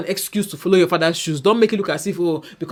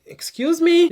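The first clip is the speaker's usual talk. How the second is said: sharp, much higher, offended excuse me; indignant retort to a rude answer; 12 semitones higher, 3 dB louder, slower than usual. Retold or imitated. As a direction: bristle at the tone, pitch jumping up. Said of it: "was like".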